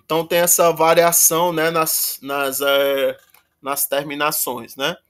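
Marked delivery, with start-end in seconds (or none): none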